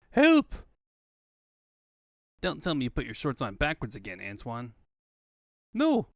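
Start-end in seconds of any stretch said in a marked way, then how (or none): 0.1-0.5 high, loud scream for help; high, loud panicked cry for help; yelling for help. Acted. Calling for help. 5.7-6.1 high, loud frantic no; high, loud panicked no; frantic shout. Acted. Frantic denial.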